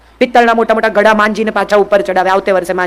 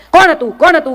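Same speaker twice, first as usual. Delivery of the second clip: higher, urgent demand of a mother who has lost her temper; agitated mother; 5 semitones higher than usual. Retold or imitated. Mother grilling her daughter, angry and alarmed. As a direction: mimic a mother snapping with worry. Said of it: "મા મગજ ગુમાવીને".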